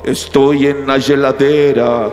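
very low, slow, drawn-out intoning; beckoning temptation voice. Retold or imitated. Cake calling from the fridge, deep beckoning voice. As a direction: lure the listener in with a deep haunting call. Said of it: "La voz pioró".

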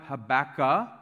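Habakkuk as huh-BACK-uh, final k dropped; variant pronunciation. Shown as a demonstration. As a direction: stress BACK and leave off Habakkuk's last consonant. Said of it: "Some people call it".

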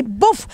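a mimicked "buf" of a blow landing; imitated thud. Telling the pastor how the rock struck, imitated thud. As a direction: punch out a short impact noise. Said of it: "cuando le dimos así ese maco".

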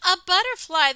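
high, loud storybook exclamation; crying out. Acted. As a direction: cry it out as the astonished robin. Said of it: "the robin cried".

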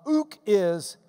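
usual speaking voice

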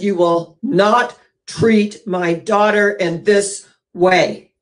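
slow, firm mother's rebuke; stern mother. Retold or imitated. Mother scolding the school over her daughter, stern and slow. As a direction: lay down the law word by word, slowly.

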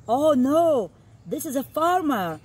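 dramatic alarm. Acted. Exciting part of book.

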